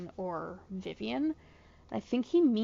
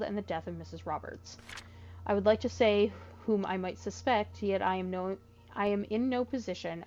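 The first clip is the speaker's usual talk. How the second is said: letter reading. Acted. Reads the in-game letter aloud.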